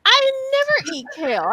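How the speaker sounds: never said high and stretched out; stress on never. Real, not acted. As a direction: lean hard on "never". Denying she always eats kale.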